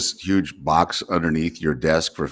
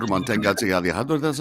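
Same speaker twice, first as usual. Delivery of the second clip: train station announcement; faster than usual. Retold or imitated. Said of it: "can't even say it anymore".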